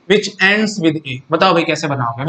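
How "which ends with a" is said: "which ends with A" drawn out word by word; slow emphatic repeat. Shown as a demonstration. Teacher repeating the question for students, slow and deliberate. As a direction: spell the phrase out slowly for the class.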